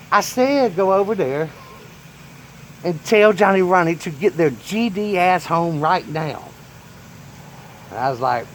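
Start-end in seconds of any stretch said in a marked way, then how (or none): 0.1-6.4 high, slow angry repeat; grandpa insisting. Retold or imitated. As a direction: hammer the order home. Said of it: "He's like".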